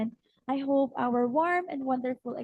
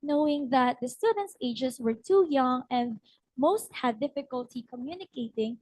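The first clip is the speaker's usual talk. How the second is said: storybook reading with lilting, lifted key words; story narration. Acted. Practice teacher telling fellow teachers their short story, storybook narration. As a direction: read it like a children's tale, rising playfully on phrases.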